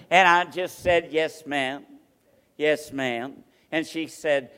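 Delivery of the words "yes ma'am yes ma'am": a hint of a soft, humble yes, lower and softer; meek yes ma'am. Preacher meekly answering an angry church lady, softly. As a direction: answer like a small innocent child. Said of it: "Very kind, this little innocent face".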